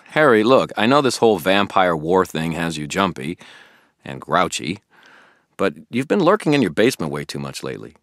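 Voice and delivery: a puzzled, keen friend pressing Harry; Billy the eager friend. Acted. Billy questioning Harry about the toads, puzzled and keen.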